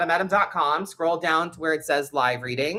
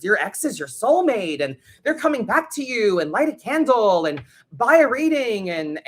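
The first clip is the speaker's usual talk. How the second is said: a mock-sweet con-artist reader, pitched higher; scammy psychic reader; 3 semitones higher than usual. Imitating a scam tarot reader who promises the ex comes back. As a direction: ham up a fake psychic selling false hope. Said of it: "reader will take you for a fucking ride and be like".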